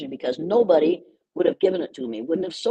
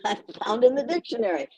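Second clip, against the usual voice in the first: laughing; 6 semitones higher, faster than usual. Real, not acted. Laughing while explaining.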